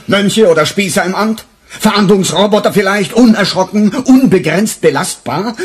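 bitter outburst at his superior; indignant outburst. Acted. Angry outburst against the superior.

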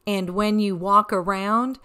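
put-on slow, even read-aloud voice for children; storybook reading. A narrator's reading. Grandmother reading a picture book to kids, gently. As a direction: read the rhyme like a bedtime story.

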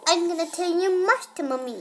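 giggling tease; laughing. Real, not acted. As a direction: threat said through laughter. Teasing threat, laughing.

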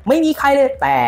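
urgent shout across the pitch; shouting warning. Retold or imitated. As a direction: bellow it like a defender seeing the gap. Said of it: "ฉันจะตะโกนเลย".

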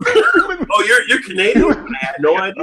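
mock surprise. Mock surprised coworker reply.

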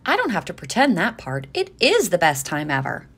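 mean every word; lightly sincere dad. Acted. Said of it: "said Dad".

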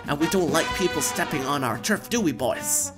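loud menacing gang boss; gang leader. Acted. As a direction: threaten them like a thug. Gang threatens.

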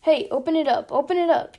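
loud, rising eager demand; urging. A narrator's reading. Drunk Chief to the driver, urging. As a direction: egg the driver on loudly. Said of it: "urged McWatt".

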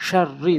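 শার রি with the r sounded twice; doubled consonant. Shown as a demonstration. Teacher showing learners to pronounce twice, doubled consonant. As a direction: close on r, then release it into রি. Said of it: "দুইবার করে উচ্চারণ করবেন".

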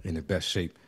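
winded from running up steps; out of breath. Real, not acted. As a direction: speak while catching your breath. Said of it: "I'm out of breath".

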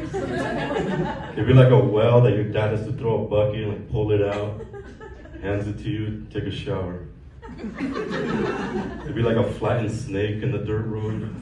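laughing. Real, not acted. Imagined village restaurant, laughing through.

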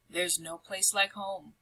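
soft contented sigh. Acted. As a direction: sigh it out in relief. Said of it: "sighed the town mouse".

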